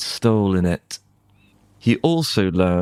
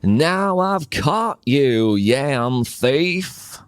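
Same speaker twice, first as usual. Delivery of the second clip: higher, triumphant gloat; gloating farmer; 5 semitones higher, slower than usual. Acted. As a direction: crow over the caught thief. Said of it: "and he laughed".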